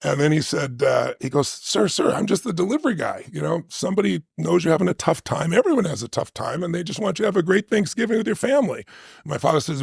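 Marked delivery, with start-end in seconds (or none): 1.5-8.8 higher, gentle voice coaxing a proud man; delivery man pleading. Retold or imitated. Delivery guy pleads at door.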